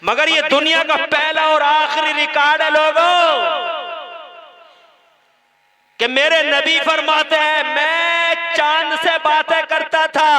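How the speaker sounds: high, loud preacher's cry; preaching at full force. Acted. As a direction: call it out to the whole gathering. (ज़ोरदार तक़रीर की पुकार)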